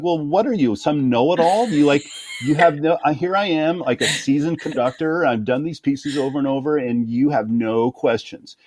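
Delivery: high, sneering mock voice; imagined boss sneering. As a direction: sneer like a seasoned know-it-all. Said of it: "he'd be like".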